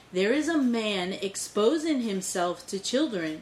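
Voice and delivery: slow, deliberate sassy retelling; lightly voiced indignant mom. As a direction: imitate a sassy mom spelling it out slowly. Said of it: "my mom's fucking sassy".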